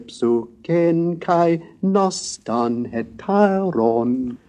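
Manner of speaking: slow, lilting epic chant in ancient Greek; cheerful but measured pitch-accented verse; brighter Greek recitation. Shown as a demonstration. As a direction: intone the hexameters with leaping pitch accents. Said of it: "Now the brighter Odyssey".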